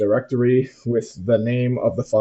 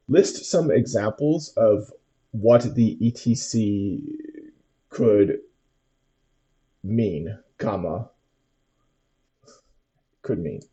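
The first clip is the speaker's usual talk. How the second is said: dictating; slower than usual. Shown as a demonstration. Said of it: "and then we're going to say".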